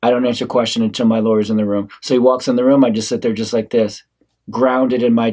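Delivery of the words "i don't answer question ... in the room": rehearsed answer. Acted. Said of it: "And my answer is".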